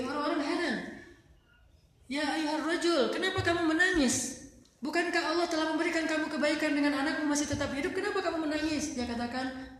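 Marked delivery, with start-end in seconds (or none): 2.1-9.0 raised, high questioning voice; puzzled calling out. Retold or imitated. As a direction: call out to him, baffled. People ask the weeping man.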